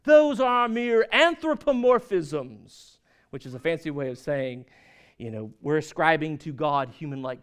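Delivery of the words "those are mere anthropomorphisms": slow, loud, lofty; drawn-out academic disdain; pompous. Retold or imitated. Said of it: "they would say".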